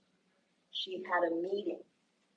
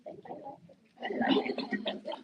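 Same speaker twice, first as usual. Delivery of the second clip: breathy whispered hmm, thank you; 8 semitones higher, much slower than usual. Retold or imitated. Student whispering thanks to her teacher, under her breath. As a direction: whisper it gratefully, barely voiced. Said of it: "And she's like".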